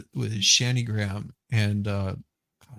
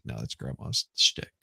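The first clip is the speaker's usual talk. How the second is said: hushed breathy aside; mock ASMR whisper, breathy and low; whispered quote; 12 semitones lower, 6 dB quieter than usual. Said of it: "I was like".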